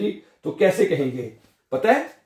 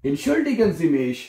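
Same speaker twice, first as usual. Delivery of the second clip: slow model phrase; 2 semitones higher, much slower than usual. Shown as a demonstration. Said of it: "teacher models phrase slowly".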